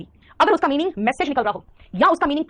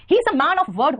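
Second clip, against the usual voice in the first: slow dictation; 5 semitones higher, 3 dB louder, much slower than usual. Shown as a demonstration. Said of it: "ये idioms and phrase में आता है".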